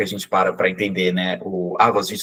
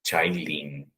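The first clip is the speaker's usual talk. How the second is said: soft demo; 6 semitones lower, 8 dB quieter than usual. Shown as a demonstration. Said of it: "que vai ser Chailin".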